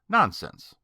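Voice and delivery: startled protest, half to calm himself; incredulous exclamation. A narrator's reading. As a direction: scoff it off in disbelief. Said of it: "I gave an incredulous exclamation".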